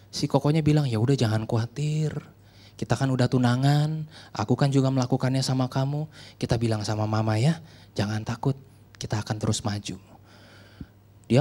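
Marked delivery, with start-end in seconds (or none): 0.9-10.0 reassuring. Retold or imitated. Boyfriend reassures pregnant girl.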